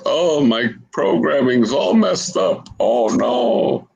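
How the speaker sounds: high fretting droid voice; fussy C3PO. Acted. Droid crawls out of floor, high fussy fret. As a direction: fret like a panicky protocol droid.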